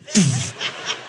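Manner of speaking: mouth-made rushing noise; imitated whoosh. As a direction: blow out a burst of air like something zooming in. Imitates the player zooming in.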